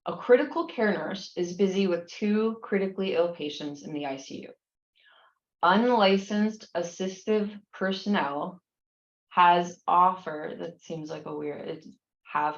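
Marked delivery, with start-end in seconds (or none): 0.1-10.6 measured, careful reading with pauses; slow reading. Real, not acted. Instructor reading a long exam question to students, slowly. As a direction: read it out slowly and deliberately. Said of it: "I'll read it slowly".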